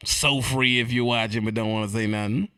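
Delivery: ordinary talk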